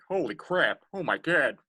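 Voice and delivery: Family Guy impression. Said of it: "I can do some Family Guy".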